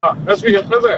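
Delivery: Anrufer klingt fern und dumpf am Telefon; weit vom Mikro. Real, not acted. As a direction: schlechte Leitung, weit weg vom Hörer. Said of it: "ja, ein bisschen besser". (weit vom Mikrofon entfernt)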